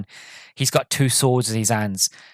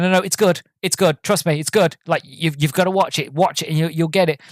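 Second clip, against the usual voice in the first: pleading insistence; 4 semitones higher than usual. Retold or imitated. Fan urges doubtful friends to watch, higher excited pleading. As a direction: excitedly beg them to believe you.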